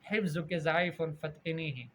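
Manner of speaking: "ضعیف" said za'eef with a z; mispronounced ظ and ض. Shown as a demonstration. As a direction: read "حفظ" and "ضعیف" wrongly with plain z. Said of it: "یتغیر المعنی".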